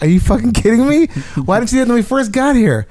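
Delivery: high, incredulous rant; imitating fed-up disbelief; exasperated disbelief. Retold inner exasperation.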